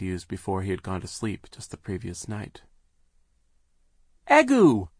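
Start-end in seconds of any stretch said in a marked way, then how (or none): 4.3-4.9 put-on very high terrified baby shriek; frightened shriek. A narrator's reading. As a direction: shriek in terror. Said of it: "Sonny shrieked in fear".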